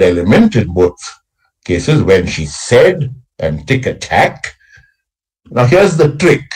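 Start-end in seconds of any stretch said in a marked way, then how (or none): 2.0-3.1 slow "when she said", leaning on "said"; "when she said" with "said" stressed and lifted. Shown as a demonstration. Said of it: "stressing on the third". 3.7-4.5 "tick-a-tack" leaning on the final "tack"; "tick-a-tack" with the third syllable stressed. Shown as a demonstration. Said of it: "stressing on the third".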